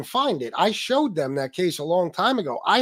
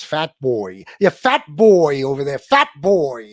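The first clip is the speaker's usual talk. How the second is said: loud jeering taunt, imitating a heckler; mocking name-caller; 8 dB louder, slower than usual. Streamer imitating the man who calls him fat, mocking. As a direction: mimic him hurling the insult loudly. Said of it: "That's how he says it".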